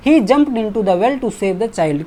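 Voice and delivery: slow, loud, deliberate reading; slow emphatic reading. Shown as a demonstration. Teacher reading the corrected sentence slowly to the class. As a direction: read the answer out word by word. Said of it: "तो यहाँ पर हम लोग into के साथ जाएंगे".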